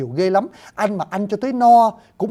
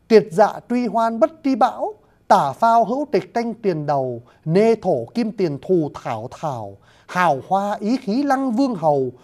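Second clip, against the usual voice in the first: measured, slow poem recital with raised voice; poem recitation; 3 semitones higher than usual. Acted. Lecturer reciting Nguyễn Du's old poem to an audience, declaimed. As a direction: recite classical verse deliberately, drawing out each line.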